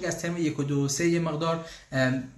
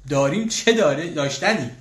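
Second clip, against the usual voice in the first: proud excited answer; 3 semitones higher, 6 dB louder than usual. Real, not acted. Proudly answers the German course question.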